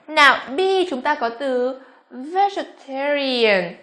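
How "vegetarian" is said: "vegetarian" with an ear-like glide; EAR vowel. Shown as a demonstration. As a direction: draw out "vegetarian" as a slow pronunciation model. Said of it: "ear cũng thế".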